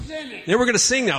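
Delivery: high-pitched, insistent announcement; imitating eager son. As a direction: play a child taking over the microphone. Son announces song, acted argument.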